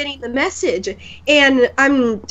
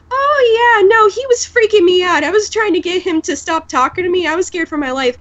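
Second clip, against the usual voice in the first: higher-pitched, chatty retelling voice; imitated girl; 6 semitones higher than usual. Acting the relieved Ruby girl.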